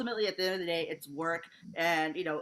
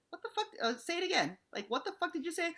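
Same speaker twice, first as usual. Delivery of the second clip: retold angry confrontation; 12 semitones higher, faster than usual. Confronting a heckler at a show.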